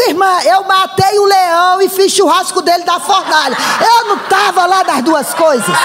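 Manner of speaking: laughing retort. Retold or imitated. Preacher's retold comeback, laughing.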